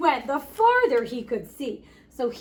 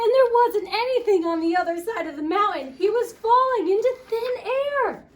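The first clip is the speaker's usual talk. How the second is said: higher, louder alarm as Harold slips; dramatic storytelling; 8 semitones higher, 4 dB louder than usual. A narrator's reading. Reading the scary fall to children, higher and louder. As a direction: build the suspense of the fall.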